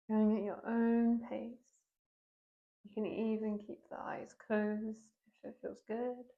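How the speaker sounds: unhurried yoga teacher guidance with long pauses; guided yoga meditation. Real, not acted. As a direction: guide them gently into breath and movement, leaving space between phrases. Leads a seated yoga meditation.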